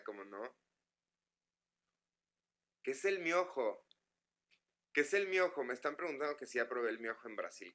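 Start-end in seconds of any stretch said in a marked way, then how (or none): 2.8-5.6 high, puzzled repeat; wondering aloud what the word means; puzzled question. Real, not acted. (pregunta desconcertada, más aguda)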